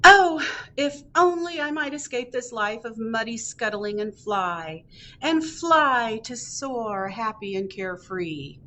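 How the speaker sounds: wistful crab. Acted. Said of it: "The crab says".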